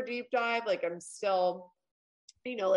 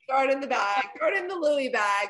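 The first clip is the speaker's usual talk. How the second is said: louder, higher mock shopper quote; breezy shopper; 4 semitones higher, 5 dB louder than usual. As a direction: toss it off loudly, imitating a careless shopper. Acting out Mary shopping carelessly.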